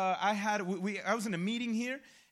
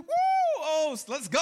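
much higher, louder whoop of joy; excited whoop; 7 semitones higher, 8 dB louder, slower than usual. Retold or imitated. Learning a stranger paid the bill, excited whoop. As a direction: cheer like the bill was just paid. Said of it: "All right, I got excited".

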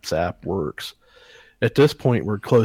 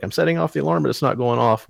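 mildly mocking wife's complaint, pitched up; imitated bitching; 4 semitones higher, faster than usual. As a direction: complain in a higher voice, imitating a nagging wife. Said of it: "She's bitching and bitching and bitching".

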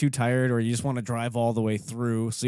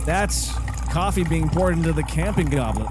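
upbeat ad read, higher and clean; hard sell ad; 4 semitones higher than usual. Shown as a demonstration. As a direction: announce it like a TV spot. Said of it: "I'll try it again".

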